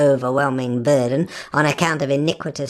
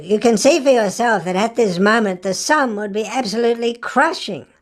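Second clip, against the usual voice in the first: higher, wheedling telephone voice; a fawning caller, pitched up and louder, angling for a favour; crawling, ingratiating; 6 semitones higher, 3 dB louder than usual. Retold or imitated. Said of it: "rather crawlingly".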